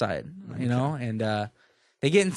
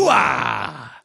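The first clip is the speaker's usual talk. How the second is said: shouted military hoo-ah; loud gung-ho soldier; 3 semitones lower, 5 dB louder than usual. Retold or imitated. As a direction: bark it like Pacino's colonel. Pacino catchphrase shouted.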